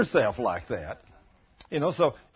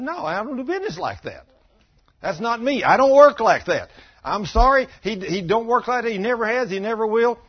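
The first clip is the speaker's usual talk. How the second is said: higher, emphatic voice of God, loud on "I don't work like that"; God refusing firmly; 6 semitones higher, 5 dB louder than usual. Retold or imitated. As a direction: lay down the law as God would. Voicing God refusing weak prayer.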